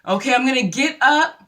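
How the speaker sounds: imitating a woman announcing her exit to the room; mock public announcement. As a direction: project every word for the eavesdroppers, stretching the end. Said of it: "she makes an announcement, basically".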